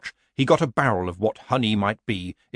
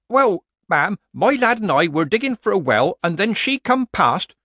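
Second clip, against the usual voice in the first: higher, louder yokel telling a tale; nervous rustic villager; 9 semitones higher, 6 dB louder than usual. A narrator's reading. Villager Hampicker reporting to Nanny Ogg, nervous.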